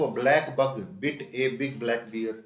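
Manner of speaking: very slow, loud, each B clear; slow emphatic recitation; very slow tongue twister. Shown as a demonstration. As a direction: stretch every word out. Tongue twister read very slowly.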